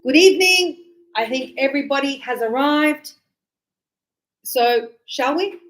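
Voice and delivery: gracious hostess inviting guests to dine; grand host announcement. Shown as a demonstration. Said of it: "I might go".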